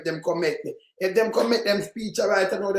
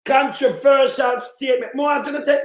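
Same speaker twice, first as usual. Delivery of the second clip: loud scornful repeat of the phrase; shouting the quote back in scorn; mocking shout; 3 semitones higher, 4 dB louder than usual. Real, not acted. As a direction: throw his own words back at him. Mocking the politician's quoted words.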